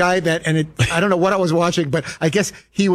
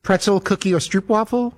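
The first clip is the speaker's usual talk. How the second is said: flight attendant call. Retold or imitated. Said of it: "Wait, what is it?".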